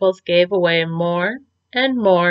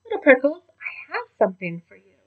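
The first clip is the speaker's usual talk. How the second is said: Mama Prickles; 6 semitones higher, 4 dB quieter, faster than usual. A narrator's reading. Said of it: "Mama Prickles said".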